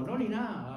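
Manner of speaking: "nada" clipped to "na" with a long final a; Andalusian "no ni na". Retold or imitated. Lecturer quotes a flag-waving Andalusian expression, dropping the d. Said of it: "expresiones que se convierten en bandera".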